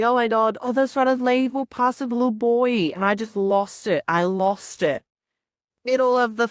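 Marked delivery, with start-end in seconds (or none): 0.0-2.9 starting to cry. Retold or imitated. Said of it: "I just started crying".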